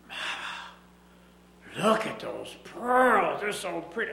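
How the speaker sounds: lightly voiced little girl, pleading; a hint of a child begging mama. Little girl begs her mama for pearls, lightly voiced. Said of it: "little girl looked at 'em and says".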